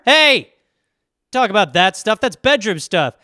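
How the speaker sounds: shocked reprimand to the hand; mock scolding.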